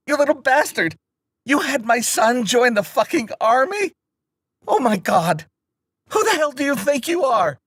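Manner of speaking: high, furious screaming tirade; vicious berating. Acted. Mother screaming at the boy for her son's enlistment, furious. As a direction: tear into him with rage. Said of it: "This vicious berating".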